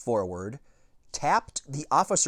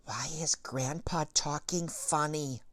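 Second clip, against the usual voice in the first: put-on soft, higher little girl whisper; 4 semitones higher, 7 dB quieter than usual. A narrator's reading. Agatha whispering to Mom, soft and higher. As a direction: lean in and ask quietly.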